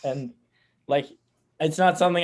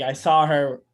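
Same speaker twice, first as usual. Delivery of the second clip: Boston accent; 6 dB louder, slower than usual. Shown as a demonstration. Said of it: "I'll go Boston".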